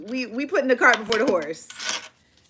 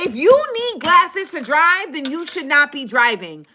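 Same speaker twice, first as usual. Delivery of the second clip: stern demand; 4 semitones higher, slower than usual. Retold or imitated. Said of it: "Because I said".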